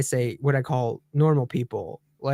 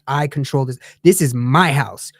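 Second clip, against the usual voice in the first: firm authority; 4 dB louder than usual. Retold or imitated. Flight attendant to the passengers, firm and commanding. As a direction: lay down the law, unhurried. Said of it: "like, in the firm".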